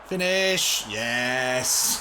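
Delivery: excited shout. Real, not acted. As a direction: yell it at the striker. Shouting at the striker.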